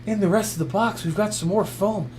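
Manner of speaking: lightly voiced clueless gadget reviewer, mostly his own voice; a hint of a know-nothing reviewer, deadpan; parody YouTube reviewer. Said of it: "I'm impersonating YouTube reviewers".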